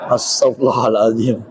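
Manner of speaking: astagfirullah through laughter; laughing exclamation. Real, not acted. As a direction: laugh it out, caught off guard. Reacts laughing to audience teasing. (sambil tertawa geli)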